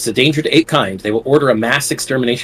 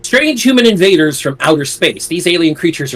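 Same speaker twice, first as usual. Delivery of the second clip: put-on old sci-fi announcer; 3 semitones higher than usual. Dramatic read of rulebook text.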